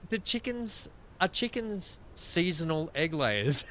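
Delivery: a mock innocent neighbour asking; imitating the neighbours.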